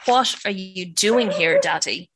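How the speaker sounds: slow, pointed question to Daddy; cold demand. Acted. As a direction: drag out each word, accusing him. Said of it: "she demanded".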